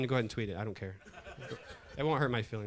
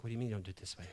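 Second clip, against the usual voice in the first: softer, imitating a hushed nurse; mock hushed arguing; 2 semitones lower, 7 dB quieter, much faster than usual. Nurse challenging the doctor over the patient, hushed. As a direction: keep the challenge down, as if trying to whisper. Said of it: "trying to whisper".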